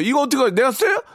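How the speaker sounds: joking excitement. Real, not acted. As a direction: tease as if keeping the gifts. Excited about gifts.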